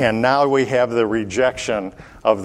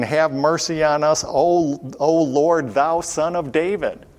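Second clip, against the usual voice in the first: pleading cry pitched higher; crying out more; 4 semitones higher than usual. Shown as a demonstration. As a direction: cry out harder, begging the Lord. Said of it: "But they cried the more".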